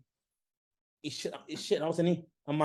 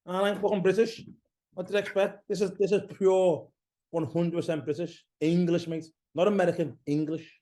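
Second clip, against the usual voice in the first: play-angry at being teased; jokingly offended Brit; mock outrage; 5 semitones higher than usual. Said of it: "you get more and more British".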